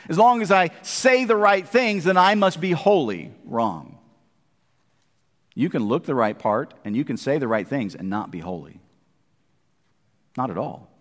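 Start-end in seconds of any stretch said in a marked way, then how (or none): 3.4-10.9 low wrong. Acted. Preacher rejects false holiness.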